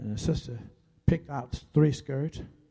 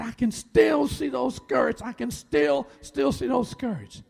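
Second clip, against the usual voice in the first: high, drawn-out distressed cry; retold sobbing; 10 semitones higher, 4 dB louder, slower than usual. Wife overcome by an old hurt, imitated sobbing. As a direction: imitate a wife's anguished outburst, slowly. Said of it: "she began to sob".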